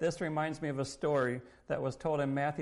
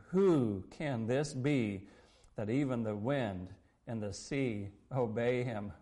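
marveling; 4 semitones lower than usual. Retold or imitated. Disciples after the great calm, marveling. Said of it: "The men marveled, saying".

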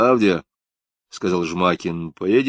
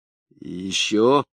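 wheedling voice; much slower than usual. Acted. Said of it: "подлизывающимся голосом спросил он".

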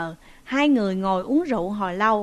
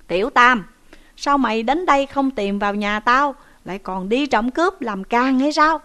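loud angry scolding of a nephew; scolding loudly; 2 semitones higher, 5 dB louder than usual. Acted. Uncle loudly scolding the captive nephew in front of officers. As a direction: tear into him, voice raised. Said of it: "quay ra mắng rằng".

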